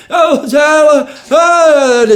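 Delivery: high, drawn-out calling voice; wife calling out. Retold or imitated. Wife searching the park, calling out, high and slow. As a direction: call out his name like his worried wife. Retelling his wife finding him.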